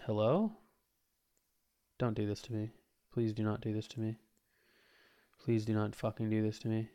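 quiet desperate pleading; anguished denial. Real, not acted. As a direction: beg the machine not to die. OP-1 glitching, pleading.

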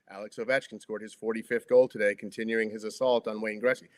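scripted sportscast delivery, little inflection; stiff announcer read. Shown as a demonstration. Podcaster reporting the goal to listeners, stiff announcer read. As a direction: read it out like formal sports copy. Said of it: "That's not how you would talk".

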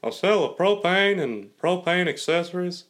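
proudly swooping TV dad voice; Hank Hill. Acted. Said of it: "Do the title, s-, like, song".

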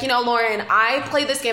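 lightly imitated veteran player giving a pep talk; a hint of his Boston voice; Boston Rob. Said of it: "Great impression".

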